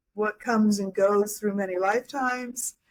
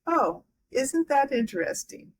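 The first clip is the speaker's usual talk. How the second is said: a light imitation of his accent, pitched higher; his accent put on lightly, raised pitch; Eckhart Tolle's accent; 5 semitones higher than usual. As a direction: mimic the teacher's accent with amusement. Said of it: "he said this so funny in his accent".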